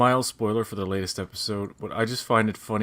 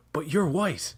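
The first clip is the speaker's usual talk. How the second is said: whispered; 7 semitones higher, slower than usual. Retold or imitated. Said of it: "He's like".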